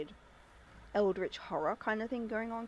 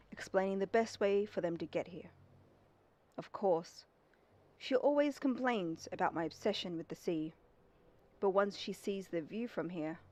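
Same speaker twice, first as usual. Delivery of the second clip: lightly voiced old captain reading his diary; diary narration. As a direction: read it like a calm journal entry. Reads the keeper's diary aloud.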